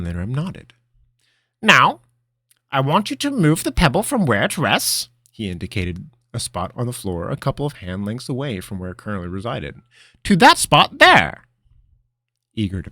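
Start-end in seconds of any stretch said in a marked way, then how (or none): 1.6-11.4 high, loud wizard voice; brisk like a wizard master; old wizard voice. Acted. Master instructing.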